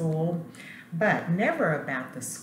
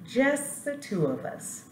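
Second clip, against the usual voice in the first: school's voice; 9 semitones higher than usual. Acted. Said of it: "the school said to Janitor".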